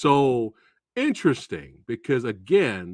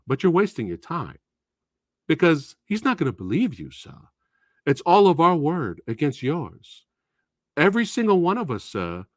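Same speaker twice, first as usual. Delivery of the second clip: overly polite student. Acted. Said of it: "that's how they talk to you".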